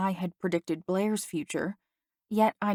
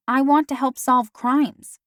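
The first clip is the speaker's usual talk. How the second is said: eager; 5 semitones higher, 7 dB louder than usual. Acted. Daphne eagerly declares goal.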